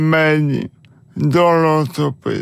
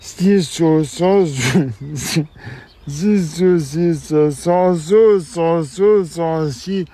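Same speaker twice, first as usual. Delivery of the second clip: slow careful repetition; slower than usual. Real, not acted. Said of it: "une séance d'orthophonie".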